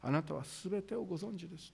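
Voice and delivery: 小さな声で苦しげに; small voice. Retold or imitated. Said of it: "小さな声で答えていきます".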